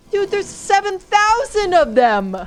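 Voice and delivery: high, drawn-out disbelieving cry; shocked outcry. Real, not acted. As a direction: shout it slowly in disbelief at the horde. Swarmed by enemies in game.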